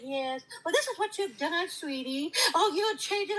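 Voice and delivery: a hint of sugary placating talk; mock sweet voice. Mocking how she'd sweet-talk a white man, light sweetness. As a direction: lightly play the soft ass-kisser. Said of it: "I'm not gonna cupcake and kiss a white man's ass and say".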